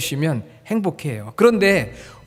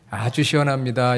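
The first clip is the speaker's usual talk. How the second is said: Seoul dialect; 3 semitones lower than usual. Shown as a demonstration. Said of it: "이거는 이제 서울, 경기".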